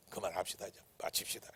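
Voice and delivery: very soft, low imitation of the elder; 살짝 속삭임. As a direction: quietly nudge the pastor to stop. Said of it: "그러면 살짝이 나한테 얘기해". (아주 작게 귀띔하듯)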